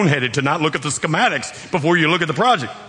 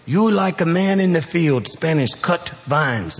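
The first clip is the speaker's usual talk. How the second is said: quoting Costa Rican members; 5 semitones higher, slower than usual. Retold or imitated. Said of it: "they go".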